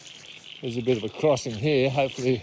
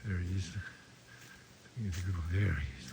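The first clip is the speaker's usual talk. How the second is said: hushed voice; 5 semitones lower, 11 dB quieter than usual. Real, not acted. Watching the goanna up close.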